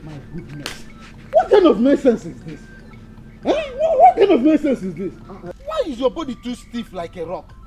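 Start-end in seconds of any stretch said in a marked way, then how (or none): 1.3-5.1 raised, high-pitched scolding burst; irritated shouting. Acted. Dance teacher berating a stiff pupil, irritated shouting. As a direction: shout it in exasperated disbelief. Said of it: "you're shouting".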